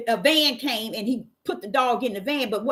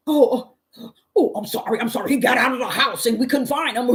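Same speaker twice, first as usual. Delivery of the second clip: apologetic neighbor; 2 semitones higher than usual. Retold or imitated.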